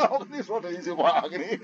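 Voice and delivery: talking through real laughter; laughing. Real, not acted. Teacher still amused, addressing listeners through laughter. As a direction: let the laugh run on under the words.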